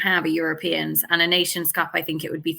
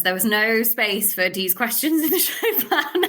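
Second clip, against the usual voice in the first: higher, drawn-out mock complaint breaking into laughter; laughing protest; 4 semitones higher than usual. Real, not acted. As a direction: tease your co-host, slowing down and ending in a laugh. Teasing co-host about unplanned questions.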